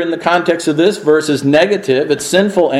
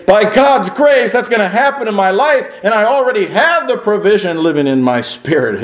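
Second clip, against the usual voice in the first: fervent resolve; 4 semitones higher than usual. Retold or imitated. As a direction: declare it with conviction. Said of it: "It's for you to read and say".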